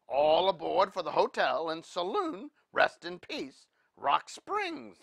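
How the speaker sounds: loud, high call to the whole train; hollering driver. A narrator's reading. Sleigh driver calling train passengers to his hotel, hollering. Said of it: "the driver hollered".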